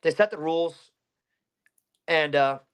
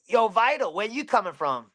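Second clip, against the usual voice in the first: imitated street hail, pitched up; retold call-out; 6 semitones higher than usual. Kids hailing him as he bikes past, mock call-out.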